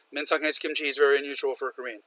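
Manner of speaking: rushed together without a break; run-on, no pause. Shown as a demonstration. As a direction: run the two sentences into each other. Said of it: "It just runs on".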